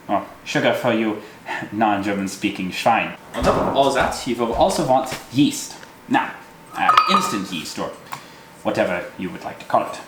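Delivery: hammy fake German accent; overdone German accent; terrible German accent. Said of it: "talking in a terrible German accent".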